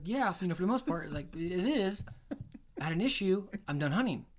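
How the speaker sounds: high, loud exasperated retelling; fed-up retort. Retold or imitated. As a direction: done with it and saying so. Retold heated reply to buddy.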